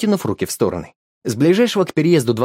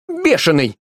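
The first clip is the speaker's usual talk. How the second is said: startled cry; 6 semitones higher, slower than usual. Acted. Woman cries out at the dog, startled. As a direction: yelp it in alarm. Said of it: "вскрикнула женщина".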